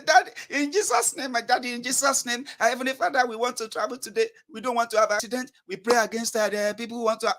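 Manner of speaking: high-pitched, hurried-sounding mock prayer; acted family prayer. Child praying against accidents before travel, high pleading.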